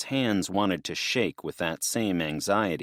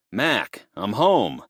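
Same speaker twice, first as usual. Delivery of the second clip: yelling; 3 semitones higher, 5 dB louder, slower than usual. Acted. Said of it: "he yelled".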